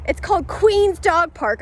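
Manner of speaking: a hint of a smug, entitled woman; mock snooty owner. Owner claiming the dog park, high mocking imitation.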